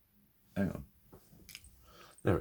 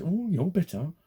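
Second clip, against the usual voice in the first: mocking sneer; 11 semitones higher, 5 dB louder than usual. Mocking what others say back.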